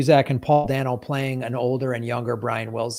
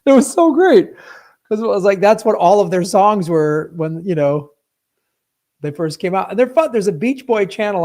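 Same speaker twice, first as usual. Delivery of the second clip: excited; 6 semitones higher, 9 dB louder than usual. Real, not acted. Laughing excitedly about the scene.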